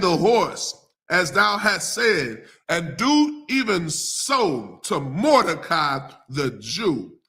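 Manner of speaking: very slow, emphatic Bible reading; stately pulpit read-aloud, heavy pauses; scripture reading. Acted. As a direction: proclaim the king's command word by word.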